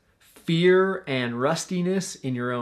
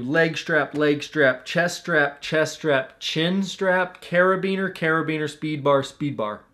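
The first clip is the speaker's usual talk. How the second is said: brisk checklist call-out, each item said twice; pre-flight checklist aloud. Shown as a demonstration. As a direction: tick off each strap out loud like a routine. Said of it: "I like to say it out loud".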